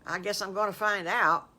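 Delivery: hesitant but game wolf. Acted. Wolf agrees to open his present, game.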